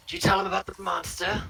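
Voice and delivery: high, loud pointed retort; half-elf retort. Acted. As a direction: throw the question at him sharply. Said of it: "he retorts".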